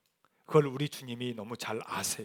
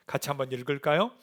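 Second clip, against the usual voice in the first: normal talking voice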